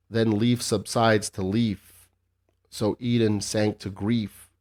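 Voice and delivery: slow, measured poem recital; poem reading. Shown as a demonstration. Reading the poem aloud for the listeners, slow and measured. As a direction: read it out slowly like a recital. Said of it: "But you want me to read it".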